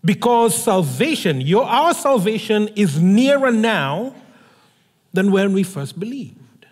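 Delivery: measured, solemn reading of a Bible passage; scripture reading. Acted. Scripture reading opening the sermon.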